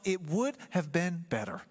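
slow, wistful "would" leaned on; lightly voiced inner regret; quoting self-talk. Preacher voicing the congregation's self-talk, slow and wistful. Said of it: "if you're always telling yourself".

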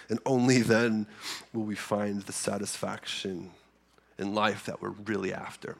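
stuffy nose from a cold; sniffly. Real, not acted. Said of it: "Sorry, I'm sniffly today".

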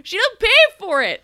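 very high, falsetto mock sweetness; fake soothing. Ingrid fussing over Emma, very high mock coo. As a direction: squeak out fake reassurance.

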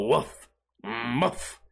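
low, soft mock woof; lightly voiced deep woof; deep dog bark. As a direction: imitate a big dog's deep bark. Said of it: "deep noise".

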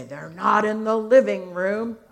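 lightly voiced searching dad; a hint of a grumbly, puzzled father; deep, grumbly voice. Dad searches the living room for his children, mildly grumbly voice. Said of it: "deep, grumbly voice".

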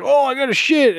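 high, urgent cartoon wail; mock urgent panic. Imitating the cartoon dad rushing to the toilet, urgent wail. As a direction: wail it like an emergency. Acting out dad's bathroom emergency.

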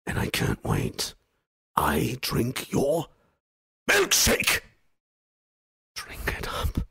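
slow, raspy villain gloat with a shrieked peak; menacing movie-villain parody; theatrical villain. Acted. Performs a film catchphrase theatrically.

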